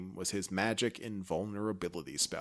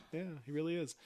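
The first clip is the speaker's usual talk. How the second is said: sarcastic; 8 semitones higher, 7 dB quieter than usual. Retold or imitated. Sarcastic agreement, high far voice.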